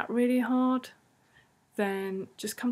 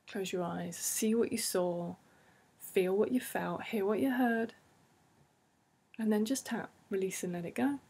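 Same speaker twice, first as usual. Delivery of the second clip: guided tapping script. Acted. Therapist guiding listeners through tapping in a soothing voice. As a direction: lead them gently into the memory.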